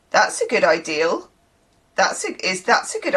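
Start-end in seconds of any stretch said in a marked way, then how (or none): 0.1-1.3 "ideal" for idea, with an L on the end; added L ending. Shown as a demonstration. Showing the Bristol word ending, L added on "ideal". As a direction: close "ideal" on a clear L sound. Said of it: "there's a lovely endl, ul".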